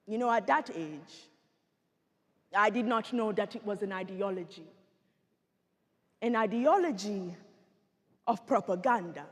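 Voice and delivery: measured, dramatic survivor testimony; genocide survivor. Acted. Survivor recounting childhood to an audience, grave storytelling. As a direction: tell it as a painful personal testimony.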